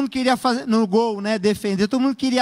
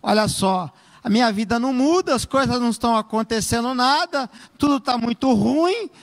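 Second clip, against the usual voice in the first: complaining. Shown as a demonstration. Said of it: "eu começo a falar assim".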